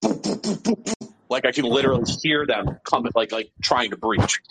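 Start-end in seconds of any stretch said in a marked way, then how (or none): 0.0-1.1 imitated beeping. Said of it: "I can hear, like, in the background".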